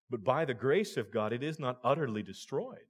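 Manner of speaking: rising preaching. Real, not acted. Preacher building to climax.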